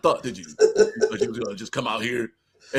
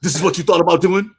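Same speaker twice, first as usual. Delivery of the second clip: louder taunting father voice; mocking old dad; 3 semitones higher, 7 dB louder than usual. Father mocking his son in the sparring rematch. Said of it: "with the old man strength".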